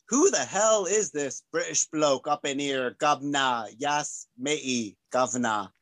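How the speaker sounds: put-on hammy, amateur British bloke accent; joking British geezer accent; mock British accent. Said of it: "Your British accent is about the same as mine".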